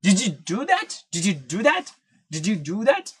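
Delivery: "Did you do that?" with "did you" run together as "diju", rising at the end; native-speed "did you do that" question; linked did you. Shown as a demonstration. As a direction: blend did-you into a j sound. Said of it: "ആ ജെ sound ആണ് അവിടെ വരുന്നത്".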